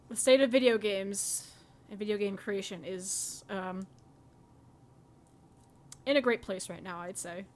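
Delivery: low, understated deadpan sarcasm; sarcastic. Real, not acted. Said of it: "I say that sarcastically".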